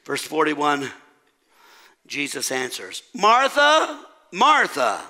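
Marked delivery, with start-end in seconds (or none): 3.1-5.0 double ding. Acted. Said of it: "Jesus double dinged her".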